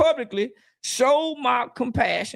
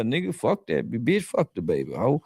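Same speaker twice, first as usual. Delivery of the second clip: lashing out; 10 semitones lower than usual. Real, not acted. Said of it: "that's just me lashing out".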